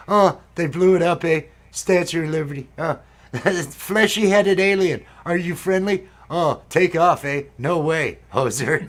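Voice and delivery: put-on playful Canadian accent, loud and bright on the eh's; Bob and Doug McKenzie. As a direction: ham it up like a Canadian hoser from Strange Brew. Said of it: "The beginning when they open up".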